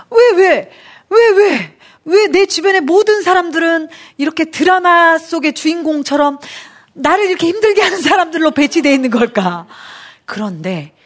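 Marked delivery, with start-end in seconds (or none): 0.1-9.6 anguished why. Real, not acted. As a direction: cry out to heaven in despair. Crying out why at her life.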